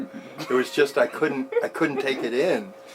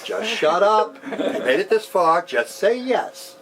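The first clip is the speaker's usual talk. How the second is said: insist, raising it up and pressing; urgent inner command; 8 semitones higher, slower than usual. Retold or imitated. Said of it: "my heart's going".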